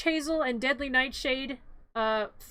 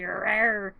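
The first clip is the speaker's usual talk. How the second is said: low, half-hearted "rawr"; mock growl; 5 semitones lower than usual. Finkelstein pointing the needle, mock growling. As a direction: growl lightly like a grumpy monster.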